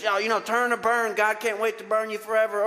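hammed-up hellfire sermon; mock hellfire preacher. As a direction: lampoon a turn-or-burn preacher. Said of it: "some thin little solo that says".

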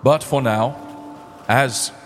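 lightly voiced solemn captain; gentle hint of a ship captain's funeral speech; captain's eulogy. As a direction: speak as a grieving captain honoring a friend. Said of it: "says Captain Salias".

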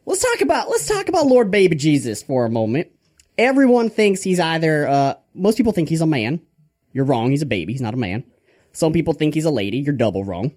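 lightly voiced mock preacher; Father Grandfather. Preacher correcting people on Lord Baby Jesus, lightly hammed-up. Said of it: "motivational speech on the Lord Baby Jesus by Father Grandfather".

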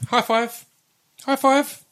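high sing-song dog talk; coaxing the dog. Real, not acted. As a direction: coax a dog to high five.

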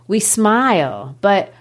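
very slow, solemn verse recital; poetry reading. Acted. Teacher reading the last stanza aloud, slow declaimed verse. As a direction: recite with long drawn words and pauses.

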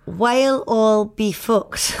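slow Irish accent. Shown as a demonstration. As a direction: say it slowly in a put-on Irish accent. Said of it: "A good Irish accent hack".

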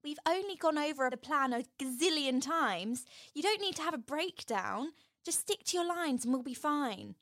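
hint of a film character reassuring a friend; lightly voiced Jazz. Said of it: "And Jazz is like".

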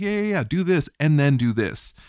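brisk retold instructions, mildly stern; matter of fact. Survivor imitating her friend's recovery advice, matter of fact. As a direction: imitate someone listing steps without fuss. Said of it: "almost matter of fact".

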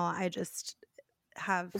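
hoarse, cracking voice; raspy voice. Real, not acted. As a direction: voice breaking into rasp. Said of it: "Raspy voice".

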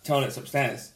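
softly muttered mock nonchalance; offhand greeting. Imitating a son meeting his stepdad at the fridge, offhand.

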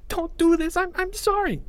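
high, panicked begging; shuddering breaths. Acted. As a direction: beg through shuddering breaths. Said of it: "he said through shuddering breaths".

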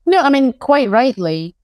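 dry sarcasm, pitched a little high; lightly sarcastic, as if fully approving. Real, not acted. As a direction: say it with deliberate mock approval. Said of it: "I'm being quite sarcastic".

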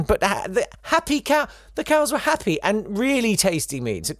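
hammed-up cheerful farmer voice; imitating farmers. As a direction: gush like a smug farmer. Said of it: "some farmers regale readers with anecdotes".

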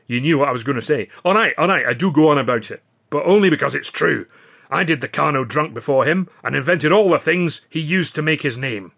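a hint of a Scottish comic, delighted; lightly voiced Scotsman. Ritchie boasts about the act.

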